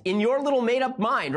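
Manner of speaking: mocking scorn. Real, not acted. Host ridicules the op-ed writer's invented scene. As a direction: scoff at her imaginary date. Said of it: "host mocks the writer".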